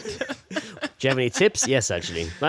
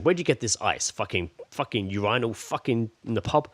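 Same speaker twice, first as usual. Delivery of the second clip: spoiled diva; 3 semitones lower than usual. Pretend. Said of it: "pretending to be dickheads".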